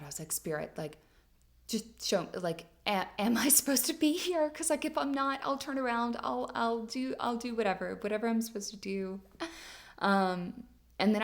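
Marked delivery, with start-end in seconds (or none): 0.3-9.2 high, loud, fast pleading to the sky. Retold or imitated. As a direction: beg spirit for a sign, voice climbing. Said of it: "like, out loud".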